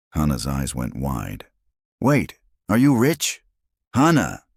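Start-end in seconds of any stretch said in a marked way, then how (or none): 2.0-3.4 put-on amazed child. 3.9-4.4 sharp, loud rebuke of her daughter; sharp scolding. Acted. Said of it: "Destiny said sharply".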